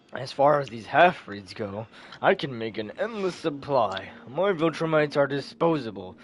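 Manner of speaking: understated, low menace; cold villain. Acted. Villain Thrag boasts of disposable offspring.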